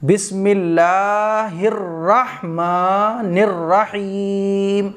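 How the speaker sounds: slow, drawn-out chanted recitation; Quranic recitation. Shown as a demonstration. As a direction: recite it in full tajweed. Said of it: "یہ ہے صحیح".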